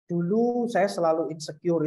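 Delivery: "Dulu saya selalu insecure" with every vowel distinct; crisply articulated "Dulu saya selalu insecure"; clear articulation. Shown as a demonstration. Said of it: "itu harus, harus jelas".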